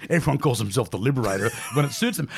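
laughing through the words; chuckling while talking; stifled giggles. Real, not acted. Laughing at liberators joke.

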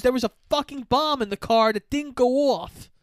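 high-pitched retold outrage; acted angry retort. Acted furious revelation of car bomb.

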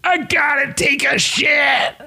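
mock urgent. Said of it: "You just say".

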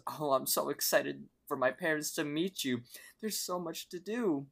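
lightly acted excitement, pitch lifting at the end; thrilled girlfriend. Girlfriend to boyfriend before he meets her parents, thrilled. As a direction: retell her happy gushing, voice rising. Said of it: "Starla's thrilled to hear about this".

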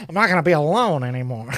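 fast, laughing mock relief. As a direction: gush it through laughter. Joking lovestruck pretend.

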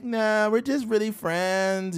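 lightly mocked valley girl. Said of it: "the standard voice now".

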